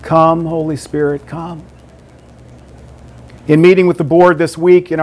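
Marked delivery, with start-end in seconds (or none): 0.0-1.6 prayerful invitation. Shown as a demonstration. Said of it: "We just say".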